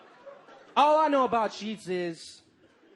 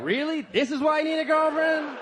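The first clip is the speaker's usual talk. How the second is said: mock incredulous; 7 semitones higher, 5 dB louder than usual. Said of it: "And I was like".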